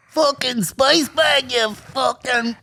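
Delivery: slow, high-pitched Irish caricature; mock Irish accent. Firing back at the southern heckler, slow mock Irish accent. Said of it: "And you're like".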